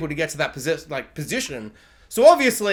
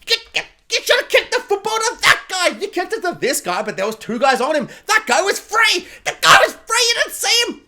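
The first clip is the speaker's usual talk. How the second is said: football fan yell; 11 semitones higher than usual. Retold or imitated. Football supporter yelling at the player, mock outrage. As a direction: scream at the pitch like a furious fan. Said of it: "like a supporter when I'm watching football".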